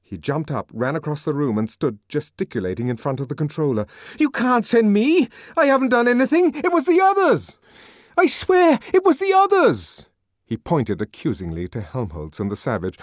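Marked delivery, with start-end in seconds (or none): 4.2-10.1 high, shrill, frantic yelling; a coward begging to be spared; hysterical pleading. A narrator's reading. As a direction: Bernard hysterically begging the controller. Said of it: "violent and unseemly activity".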